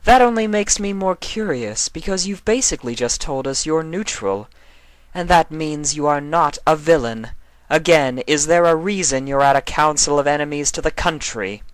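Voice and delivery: Nightmare Moon. Acted. Nightmare Moon correcting Chrysalis, a regal, lecturing voice. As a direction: correct them with cool authority.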